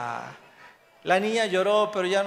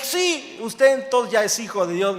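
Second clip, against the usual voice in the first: excited retold quote; 4 semitones higher, 7 dB louder than usual. Pastor's words retold with excitement.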